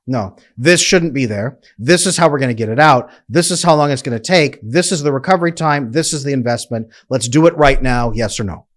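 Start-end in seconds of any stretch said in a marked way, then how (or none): 0.1-3.1 lightly voiced sure coach setting the plan; decisive coach. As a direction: tell them plainly where it goes, "this" leaned on.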